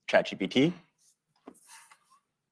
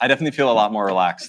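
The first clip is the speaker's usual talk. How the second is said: laughing; faster than usual. Real, not acted. Laughing at the song.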